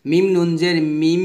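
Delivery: last "মিম" drawn out into a long hummed m; spell, then hold the m of "মিম"; ghunna demonstration. Shown as a demonstration. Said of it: "এভাবে". (শেষের "মিম" গুন্নাসহ টেনে)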